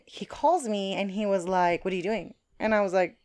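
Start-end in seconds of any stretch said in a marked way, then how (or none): 1.8-2.3 softer, casual retold question; imitating chill caller. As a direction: toss it off like a relaxed caller. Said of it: "Hella chill".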